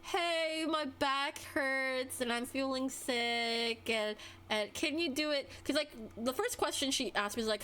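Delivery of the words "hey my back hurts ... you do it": slow, whiny sick-coworker voice; whiny mock complaint. Mocking coworker who begs off a task with a whiny excuse. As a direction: drag it out like a fake sick excuse. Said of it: "She did the whole".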